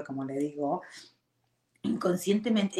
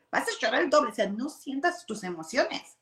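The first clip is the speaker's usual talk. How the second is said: imitating mother; 6 semitones higher than usual. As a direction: drive the warning home as mom. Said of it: "mamá me decía".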